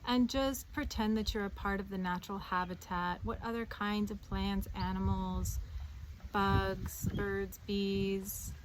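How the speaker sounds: calm guided meditation voice, with long pauses; unhurried meditation leader, phrases settling at the ends. Acted. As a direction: ease the listener gently into grounding. Leads a meditation.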